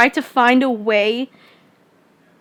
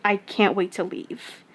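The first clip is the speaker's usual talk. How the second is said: retold sulky anger; 3 semitones lower, 9 dB quieter, slower than usual. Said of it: "send the message across, I was mad".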